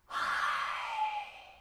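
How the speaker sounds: high voiced breath out. Shown as a demonstration. Coach demonstrating breath for the class. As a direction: let the air out with a little high sound. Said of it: "Feeling that air?".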